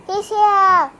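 high, loud alarm; excited cry. A narrator's reading. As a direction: blurt it out urgently. Villager announcing urgently.

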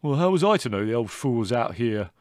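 loud, defensive son; indignant. A narrator's reading. Son defending himself to his mother, indignant. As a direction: protest indignantly, raising the volume. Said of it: "said Leslie indignantly".

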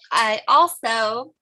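slowed, catching on her own spit; choking on spit mid-sentence. Real, not acted. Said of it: "I'm choking on my own spit".

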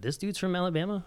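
high-pitched incredulous question; retold disbelief. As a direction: relive the amazement, pitch jumping up. Retells own amazement at video.

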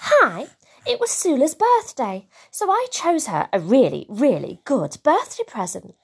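put-on chatty child recapping the day; lightly voiced young Bing. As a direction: tell it like an earnest little kid, lilting upward. Reader voices Bing recapping story.

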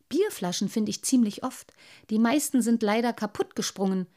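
put-on a proud little boy defending his finds; little water sprite. Little Wassermann speaks.

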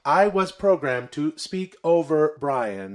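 level, programmed-sounding monotone; robot voice. Acted. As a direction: speak like a machine. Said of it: "I am a robot".

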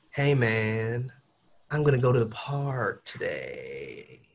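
legato, smooth. Shown as a demonstration. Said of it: "it's like legato".

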